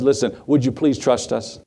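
mild, kindly retold appeal; kindly request. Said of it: "Daniel says very kindly".

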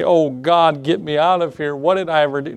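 half-hearted mock wail to God; mock weeping complaint. Preacher mimics Daniel complaining to God, mock weeping. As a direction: complain as if tearful, only lightly acted. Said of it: "cry and begin to complain and weep".

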